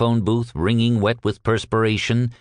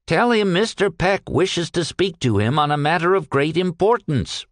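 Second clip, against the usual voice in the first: wail; 7 semitones higher than usual. Acted. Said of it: "wailed the ex-private".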